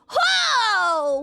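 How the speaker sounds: surprised. Real, not acted. Reacting to chat message.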